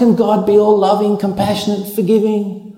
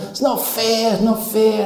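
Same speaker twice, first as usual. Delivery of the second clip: higher, petulant whine; mock whining; 4 semitones higher than usual. Accused man justifying himself, whiny. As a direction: whinge like a wronged child. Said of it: "I'm trying to justify myself".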